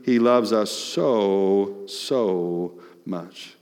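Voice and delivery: slow, heartfelt; tender. Real, not acted. Tender emphasis on God's love.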